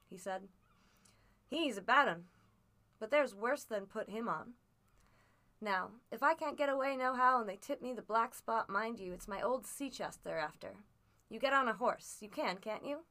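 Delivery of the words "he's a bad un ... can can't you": a lightly voiced rough old seaman, louder; coaxing his boy as a worn-out old sailor; old sea captain. Captain warns Jim.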